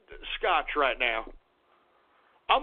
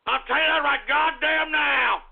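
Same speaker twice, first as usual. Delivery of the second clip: angry shout; 3 semitones higher than usual. Acted. Repeats threat shouted.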